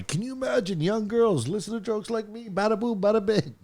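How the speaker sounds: put-on high nasal old comic voice; old Borscht Belt comic shtick; Dom Irrera impression. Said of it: "That was a great Dom Irrera impression".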